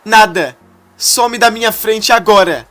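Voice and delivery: loud, high hysterical screaming; betrayed woman screaming at her fiancé. A narrator's reading. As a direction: scream your hatred at him. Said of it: "grita ainda mais alto".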